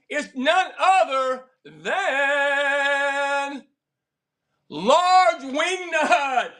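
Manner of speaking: countdown then a slow drawn-out reveal; hyped giveaway announcement. Real, not acted. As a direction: build it up like a game show host. Live giveaway draw countdown.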